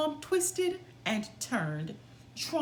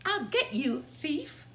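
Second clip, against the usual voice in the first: shouted threat; 5 semitones higher than usual. Acted. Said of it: "the woodcutter shouted".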